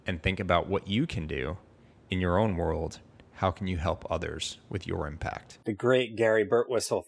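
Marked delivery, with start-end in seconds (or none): 5.6-7.0 The great Gary Birtwistle, announced high and loud; a showman presenting his guest; grand introduction. Real, not acted. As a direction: hype the guest up.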